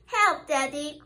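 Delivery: mild cry for help. Acted. Stuck squirrel calling Daddy, mild cry. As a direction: call out gently. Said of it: "cried little squirrel".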